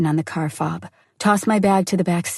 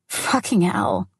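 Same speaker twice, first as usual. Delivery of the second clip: cursing; slower than usual. Acted. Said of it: "she cursed".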